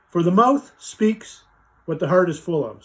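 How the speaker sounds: very slow, weighty verse ending; slow reading. Shown as a demonstration. Closing Bible verse read slowly to viewers. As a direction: draw out the final verse line. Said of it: "I'll read it slow and see".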